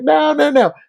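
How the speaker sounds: lightly voiced kind mentor; Bruno comforting. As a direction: gently lead him away. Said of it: "And he's like".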